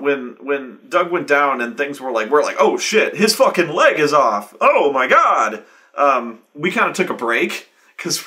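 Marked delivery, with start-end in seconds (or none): 2.6-5.6 loud, higher shocked outburst. Retold or imitated. Players reacting to Doug's leg coming off, shocked. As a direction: blurt it out in alarm at the severed leg.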